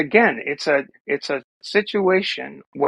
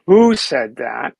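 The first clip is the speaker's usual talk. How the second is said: deliberate quote; 4 semitones lower, 5 dB louder, slower than usual. Retold or imitated. Slowly re-quoting her for emphasis.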